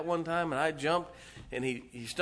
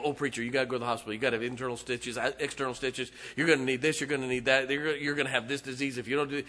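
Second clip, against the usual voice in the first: rapid-fire worried friend, rushing the words; panicky friend; 2 semitones lower, faster than usual. Retold or imitated. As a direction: rattle it off like a frantic friend. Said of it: "he's like this, you know".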